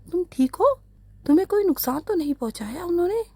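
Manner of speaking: high, fast, worried rush of questions; anxious uncle. A narrator's reading. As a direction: blurt it out in alarm for the girl. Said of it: "तड़प कर आगे बढ़ा".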